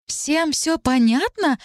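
very slow, outraged echo with hard stress on всё; flaring up. Acted. Talit flaring up at Dariana's words, outraged. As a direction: throw the words back, flaring. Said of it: "вспыхнула Талит".

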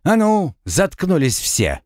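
snapping at everyone; angry shout. Acted. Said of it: "не выдержал я".

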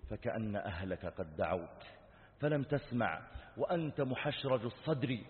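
measured, solemn recited verse; preacher intoning verse; poem recitation. Acted. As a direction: recite it as a grave admonition.

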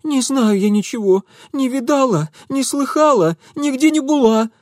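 high, loud, rattled-off denial. A narrator's reading. Scared girl rattling off denials to Mitya, high and loud. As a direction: blurt it all out in one breath. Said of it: "протараторила девка".

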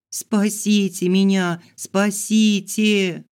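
high, slow drawn-out cry for help; desperate plea. Acted. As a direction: wail it out slowly. Pleading for rescue.

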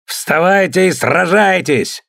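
a high, slow bellow; roaring. A narrator's reading. Thor rouses the rowers to fight, slow high roar. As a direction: roar the men awake for battle. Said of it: "заорал он".

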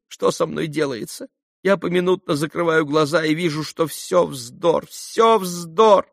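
высокий нервный голос дамы в смятении; жалуется, всплёскивая словами; взволнованная дама. A narrator's reading. Хохлакова жалуется Алёше. (нервная дама жалуется Алёше)

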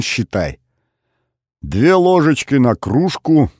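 put-on a sly old man boasting of his liquor. Grandfather explains his home brew.

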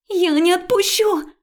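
put-on high, loud girlish cry; a frightened girl's defiant cry; desperate refusal. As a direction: shout the refusal. Friend refuses, panicking.

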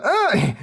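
sharp high yelp; high pained yelp. Acted. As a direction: cry out as a heel grinds your foot. Rayner's foot stomped again.

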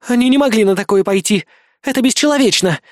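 rising outraged protest. Acted. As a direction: protest hard, voice climbing. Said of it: "продолжала атаковать критика".

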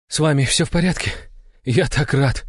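high, quick relieved father; Ivan, relieved. A narrator's reading. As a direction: breathe it out with joy. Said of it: "выдохнул Иван".

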